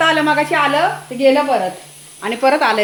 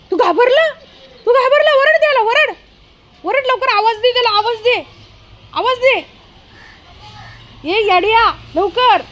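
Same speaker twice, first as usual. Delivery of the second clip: urging; 10 semitones higher than usual. Real, not acted. Urging dog to bark.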